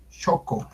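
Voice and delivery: Xoco said softly as "SHO-co"; correct Nahuatl pronunciation. Shown as a demonstration. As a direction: repeat "Xoco" softly with an opening sh. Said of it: "Se debe pronunciar Xoco".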